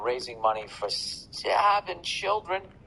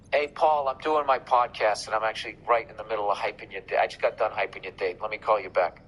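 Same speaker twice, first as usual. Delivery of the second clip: loud phone talk; 4 dB louder than usual. Real, not acted. On the phone with Paul.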